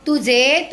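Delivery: "तुझे" with a drawn-out, rising last syllable; leading prompt. Shown as a demonstration. Teacher cueing a child to finish the question, leading prompt. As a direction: stretch "तुझे" and leave it hanging upward.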